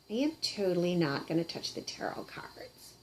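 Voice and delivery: secretive unvoiced whisper. Puppet swears off tarot cards in a whisper. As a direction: breathe it as a secret, no voice.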